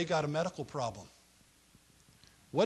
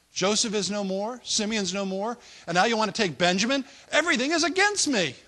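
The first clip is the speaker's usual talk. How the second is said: rising, louder wail of grief, pitch climbing high; anguished outcry; 5 semitones higher, 7 dB louder than usual. Retold or imitated. Old father Jacob crying out to his sons in anguish. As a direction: cry out that everything is against you.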